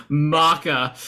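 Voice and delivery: "Maca" said as an open mah-kuh; mock the accent with "Maca" as MAH-kuh; mimicked Kiwi mocha. Teasing Saf about a random word, "Maca" as mah-kuh. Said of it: "I'm gonna drop this one on them".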